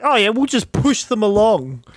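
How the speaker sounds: breezy imitation. Mimicking the Dyson makers' excuse, breezy. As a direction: mimic people casually shrugging it off. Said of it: "they were kinda like".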